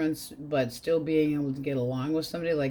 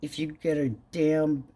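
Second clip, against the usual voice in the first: sassy retort; 3 dB louder than usual. Retold or imitated. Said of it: "And I'm like".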